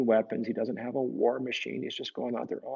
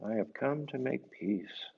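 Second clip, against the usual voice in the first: soft repeat; 6 dB quieter than usual. Shown as a demonstration. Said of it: "That's what Saint Francis said".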